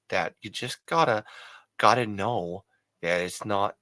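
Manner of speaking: attempted Maine accent; New England accent. Shown as a demonstration. Explaining the Maine thing to fans, attempted Maine accent. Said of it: "little bit of the New England accent".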